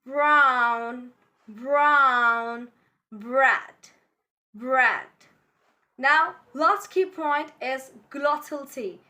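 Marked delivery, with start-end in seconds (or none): 0.0-5.1 "Brown, bread" with R sounded after B; pronounced R. Shown as a demonstration. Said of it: "Repeat after me".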